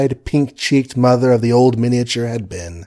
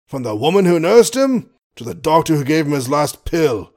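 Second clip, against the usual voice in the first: lightly voiced blustering old colonel; pompous sputtering colonel; 4 semitones higher than usual.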